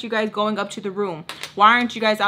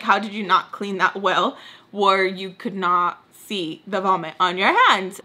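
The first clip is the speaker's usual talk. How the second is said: annoyed self-talk. Retold or imitated. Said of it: "I'm, like, in my head".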